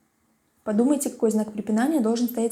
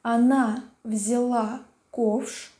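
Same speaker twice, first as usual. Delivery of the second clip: dictating; much slower than usual. Shown as a demonstration. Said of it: "Записываем".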